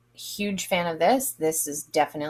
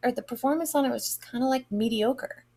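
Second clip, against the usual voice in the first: high, dismissive "meh", then rushed; mock-bored verdict on a candle; unimpressed; 5 semitones higher than usual. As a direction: shrug it off as mediocre. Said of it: "I was like".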